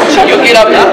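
loud, high-pitched frustrated protest; high agitated outburst. Acted. Partner desperate to be heard in a quarrel, agitated outburst. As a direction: burst out high and loud, overwrought. Acted quarrel, wanting to talk.

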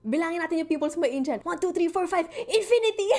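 high, loud, fast taunting; mocking bully. A hallway bully taunts her, counting pimples in mock cheer. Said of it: "He goes".

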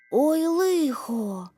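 high, drawn-out cry of alarm; boy's dismay. A narrator's reading. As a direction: wail slowly in dismay. Boy swept into spinning world.

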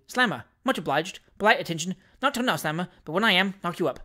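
unruffled, offhand little phrases; cool reply. Acted. Stranger answering the furious doctor, coolly. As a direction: brush him off coolly. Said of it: "replied the stranger coolly".

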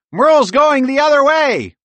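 high, loud urgent shout; high-pitched squirrel character shouting; calling out. A narrator's reading. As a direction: holler the warning up high. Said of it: "Bob called out".

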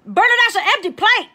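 high, loud exasperated outcry; exasperated call. Real, not acted. To husband Bernard who brought an empty plate, loud and exasperated.

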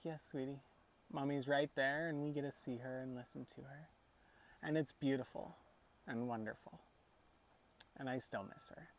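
gentle fatherly reply. Retold or imitated. Grieving dad answering his young daughter, mildly tender and soft. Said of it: "And I was like".

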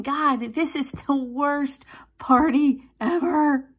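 a hint of a fed-up mom complaining; lightly voiced exasperated mother, slow; grumbling mom. Mimicking a weary mom complaining to God, mild mock whine. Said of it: "the mom going".

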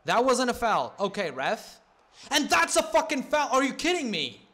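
loud, high protest; angry shout at ref. Real, not acted. Gamer arguing a foul call with the ref, furious. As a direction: yell at the referee in outrage.

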